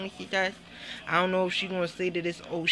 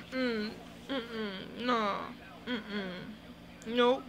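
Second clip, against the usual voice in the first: mock crying; 7 dB quieter, much slower than usual.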